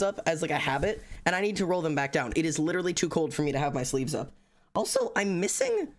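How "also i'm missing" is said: sudden high squeak; startled high-pitched squeak; squeaky surprise. Real, not acted. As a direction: voice jumps up in alarm. Sudden squeak on missing item.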